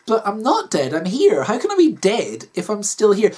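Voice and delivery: lightly voiced confused wife; mild, pleading disbelief; protesting Kathy. Wife told she is dead, confused protest.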